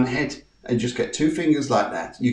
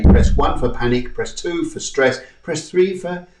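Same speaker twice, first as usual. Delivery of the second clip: mock phone menu. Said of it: "jump on the phone and say".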